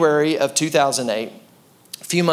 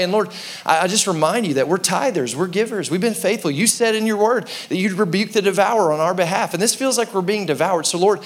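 earnest prayer; 3 semitones higher than usual. Retold or imitated. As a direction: lift it up as a heartfelt plea to the Lord. Prays aloud to God.

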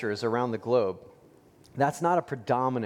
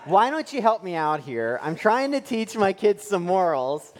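louder, higher exasperated plea; mock-exasperated appeal to the clerk, higher and louder; exasperated dad; 5 semitones higher, 3 dB louder than usual. Frustrated dad pleading with the fudge shop clerk, louder and higher. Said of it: "And I'm like".

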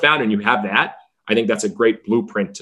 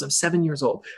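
put-on small, softer, higher child voice; little kid; 6 semitones higher, 6 dB quieter than usual. Young fan answering team owner, small kid voice. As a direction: imitate a seven-year-old answering. Seven-year-old answers in story.

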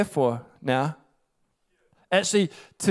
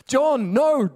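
hushed, pitched-up whisper; mock whispered brush-off; 7 semitones higher than usual. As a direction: wave John off in a sharp whisper. Jesus shooing away disciple John.

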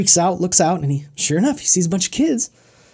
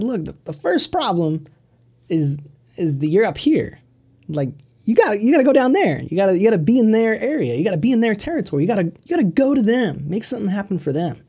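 urgent advice; 3 semitones higher, faster than usual. Retold or imitated. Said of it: "And he said".

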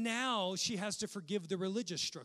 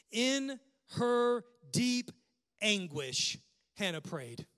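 dramatic anguish; 3 semitones higher, 6 dB louder, slower than usual. Acted. Reads scripture dramatically.

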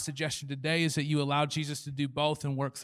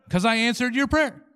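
high, loud comeback; acted exasperation, pitched up; exasperated retort; 7 semitones higher, 5 dB louder than usual. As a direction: fire back the obvious answer. God retorts to the complaint.

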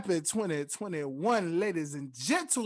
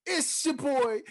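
higher, louder hype intro; hype announcer; 6 semitones higher, 4 dB louder, slower than usual. Acted. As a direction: pump up the crowd.

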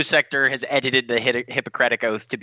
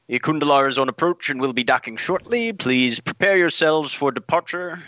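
higher, formal announcer voice; ship announcement; 4 semitones higher than usual. Acted. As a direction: announce it over the ship intercom.

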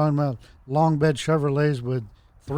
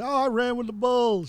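higher, smug bragging voice; lightly mocking braggart; smug boast; 9 semitones higher than usual. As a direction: show off a fake achievement. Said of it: "show people and say".

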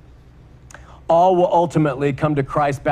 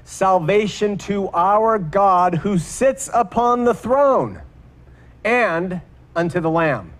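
slow, raised-pitch scripture proclamation; mild proclaimed cry; 4 semitones higher, slower than usual. Retold or imitated. Preacher reading the host's cry to God on the throne, mildly proclaimed. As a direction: proclaim it slowly, a restrained version of a crowd's cry. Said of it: "they cried with a loud voice".

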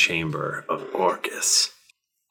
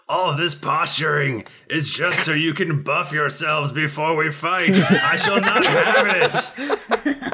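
demon lord voice; 8 semitones higher than usual. Acted. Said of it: "Orcus goes".

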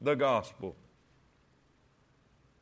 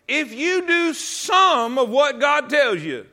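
higher, slow, driving preacher line; preaching emphasis; 6 semitones higher, 6 dB louder, slower than usual. Real, not acted. Preacher warning the church, slow and emphatic. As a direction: hammer the point home slowly.

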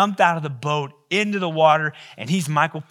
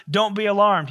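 angel's proclamation; 6 semitones higher, 6 dB louder than usual. Acted. Preacher voicing the angel.

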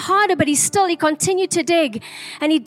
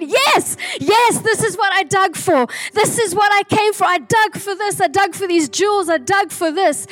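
excited; 2 semitones higher than usual. Retold or imitated. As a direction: act out his excitement, then settle gradually. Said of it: "he got so excited".

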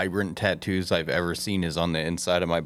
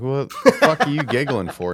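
retold alarmed shout; 7 semitones higher, 6 dB louder than usual. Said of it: "I'm like".

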